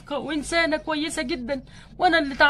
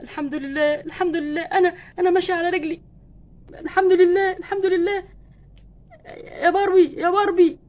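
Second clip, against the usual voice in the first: tearful joy; 3 semitones higher than usual. Acted. Ken walks again, overcome.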